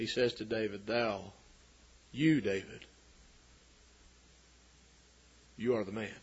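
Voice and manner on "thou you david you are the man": hushed, barely above a half-whisper. Acting out what one man says to another in the story: barely above a half-whisper. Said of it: "barely above a whisper".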